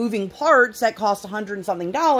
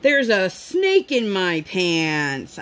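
put-on slow, sing-song kid voice; lightly voiced little girl; imitating daughter; much slower than usual. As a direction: draw it out like a giggly toddler. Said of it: "she proceeded to keep going".

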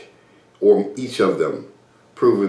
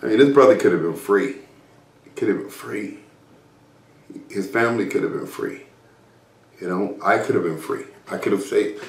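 real sadness. Real, not acted. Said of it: "that was a really sad time for me".

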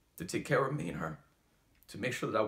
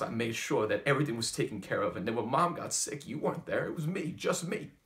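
pained accusation; 3 dB louder than usual. Acted. Son telling absent father he had to become a man, building reproach. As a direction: let the hurt build into raised-voice reproach.

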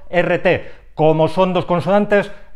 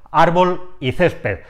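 "árbol y césped", slowly, stressing ár and cés; penultimate stress; slower than usual. Shown as a demonstration. Teacher giving examples of llanas, first syllables stressed. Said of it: "golpe de voz en la segunda sílaba contando desde el final".

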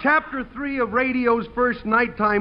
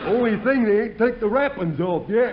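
Clem the bumpkin; 3 semitones higher than usual. Acted. Clem the dim fireman talking to the audience, goofy and cheerful. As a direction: play a goofy rube pleased with himself.

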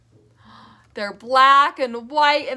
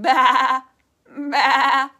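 bleating like a sheep; sheep baa; 4 dB louder than usual. Shown as a demonstration. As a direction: baa it out like a lamb. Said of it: "Can you guys all say a sheep sound?".

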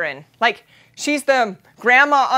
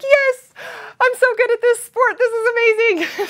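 triumphant cheer; 10 semitones higher than usual. Retold or imitated. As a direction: crow with delight. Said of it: "I'm like".

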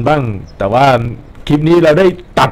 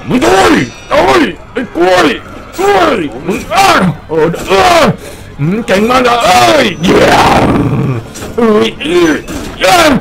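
excited yelling; 9 semitones higher than usual. Real, not acted. Gamer yelling at an enemy during a fight, excited high shouts. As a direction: yell at the enemy as the fight turns wild.

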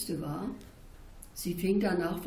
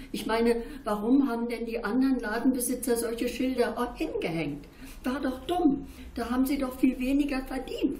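put-on bright, higher questioning child's voice; a girl pestering an old woman with questions, higher and eager; curious child; 4 semitones higher than usual. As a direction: ask like a puzzled, insistent little girl. Child narrator voicing her questions.

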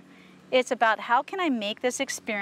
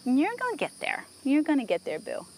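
encouraging a horse; 2 semitones higher than usual. Real, not acted. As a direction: cheer the horse on, pitched up.

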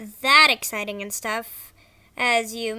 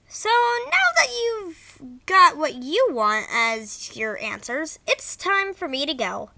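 bad acting; 5 dB louder than usual. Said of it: "Sorry if the voice acting was bad".

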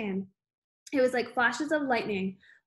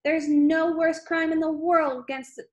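yelling; 5 semitones higher, 5 dB louder than usual. Acted. Headmistress yelling accusation.

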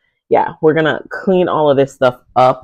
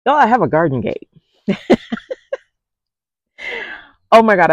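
giddy squeal over the new gate; high, fast, thrilled; excited; 8 semitones higher, faster than usual. Real, not acted. Thrilled about new garden gate.

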